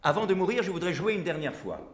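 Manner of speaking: retold declaration, spoken up; said aloud. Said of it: "et je l'ai dit à haute voix".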